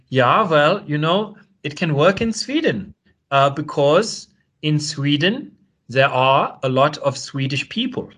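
slow, lifted mock Swedish accent, hammed up; deliberately bad Swedish accent, drawn out and sing-song; terrible Swedish accent. Imitating a Swedish economist on RT in a terrible Swedish accent. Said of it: "I'm gonna do a terrible accent".

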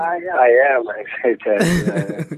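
lifted, emphatic excitement; insisting he's excited. Real, not acted. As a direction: protest that you really are excited. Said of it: "you don't sound as excited as I am".

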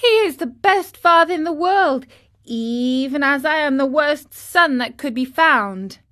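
high, loud, quick outburst of love for father; heartfelt marionette praising father; eager praise. A narrator's reading. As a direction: gush about his father, then sink in shame. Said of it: "And who is your father".

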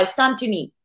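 "Santoni" said plainly with a falling end; own-name pronunciation. Shown as a demonstration. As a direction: show how "Santoni" goes, unforced and falling. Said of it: "but I'll try".

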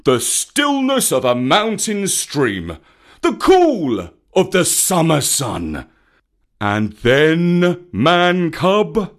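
loud, slow, heavy sarcasm; mock the idea, stretching each phrase; snorting scorn. A narrator's reading. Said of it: "Baloo snorted".

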